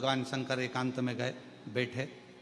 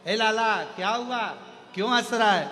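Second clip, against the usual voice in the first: higher, louder call to the little one; doting mother calling; 5 semitones higher, 5 dB louder than usual. Retold or imitated. Mother calls to her laughing baby, higher and louder. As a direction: call out to the child like a fussing mother.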